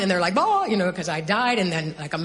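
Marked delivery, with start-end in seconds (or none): 0.4-0.6 high, loud mock bawl; imitated crying wail. Surgical staff panicking over her death, mock crying. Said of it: "they're crying".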